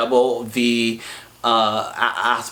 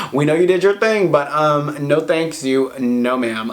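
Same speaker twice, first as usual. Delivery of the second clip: hammed-up sassy refusal; sassy mock brush-off; 4 semitones higher than usual. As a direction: brush him off with a bright mock politeness. Mock dismissal after laugh.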